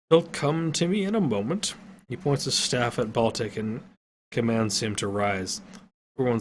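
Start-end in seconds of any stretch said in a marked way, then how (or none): 0.1-1.8 put-on old wizard. A narrator's reading. Wizard reassures.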